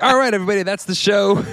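high, excited show-closing voice; podcast sign-off. Retold or imitated. Host jokingly mimicking his own opening as a sign-off. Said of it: "sounded like you were signing off".

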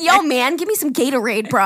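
loud mock-American bro voice; mock American accent. Retelling the Gatorade teasing, mock American accent. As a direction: imitate the stereotyped American bro. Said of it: "heavy British accents".

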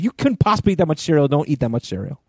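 a light imitation of a scolding daughter. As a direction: imitate a daughter telling dad off.

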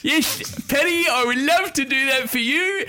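Kenny Calendar voice. Pretend. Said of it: "roll in a Kenny Calendar, uh, voice for the quiz".

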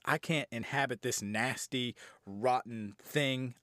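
dragging out the nasty words; slow down with mock revulsion; mock demon disgust. Demon refusing a rotten vessel, drawn-out disgust.

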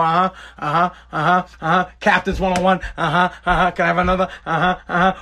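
zoned out, going through the motions; pretending to listen over a beer; fake listening. Shown as a demonstration. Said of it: "I'm not listening to you".

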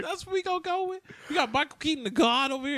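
high, appalled mock protest; incredulous retelling. Host retelling his reaction to the casting, incredulous. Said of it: "I was like".

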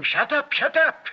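loud, high angry yell; high, loud repeated shout. Retold or imitated. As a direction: scream it down the aisle.

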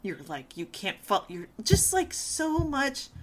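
voicing the harsh inner critic softly. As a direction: say it quietly to yourself.

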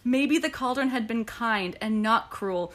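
tender reading. Acted. Reading the book's love confession.

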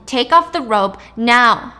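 loud, slow, forceful order; in her face. Acted. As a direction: bear down on every word of the command. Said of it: "Sai gets in her face".

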